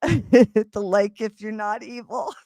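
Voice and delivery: slow words through laughter; laughing while reading chat. Real, not acted. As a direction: talk while still laughing.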